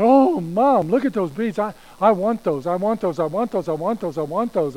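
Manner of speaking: put-on high, loud child begging, swooping on each repeat; pleading little girl. Little Susie begging Mom for beads, pleading child voice. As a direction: pester like a kid who won't let up.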